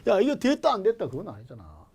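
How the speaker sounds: ordinary talk, nothing marked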